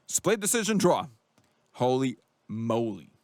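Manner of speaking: stunned fan hearing the draw announced; stunned surprise. Real, not acted. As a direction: react like you can't believe it. Shocked at the draw verdict.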